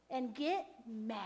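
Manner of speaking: a hushed secret command; whispered. Acted.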